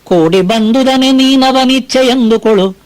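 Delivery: slow, measured verse chanting; poem recitation. Acted. Preacher reciting Mankutimmana Kagga to listeners, slow recitation. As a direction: lay out each line of the verse slowly.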